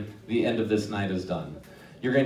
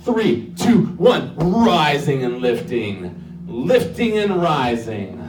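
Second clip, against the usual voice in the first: hypnotist voice. Acted. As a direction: lull them upward, drawing out each word. Hypnotist's induction on stage.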